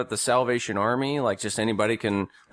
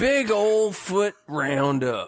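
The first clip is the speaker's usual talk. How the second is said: higher, slow holler; hollered announcement; 4 semitones higher, slower than usual. Pretend. Co-host hollering the Bigfoot segment name, drawn-out mock holler. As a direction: draw it out like a rowdy announcer.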